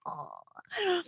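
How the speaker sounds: high, soft cooing aw; mock sympathetic aw. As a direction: coo softly in feigned sympathy. Mock kindness after read comment.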